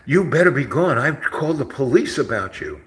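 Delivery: hammed-up furious lady; mock loud threat. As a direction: snap it like an angry woman. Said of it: "she goes".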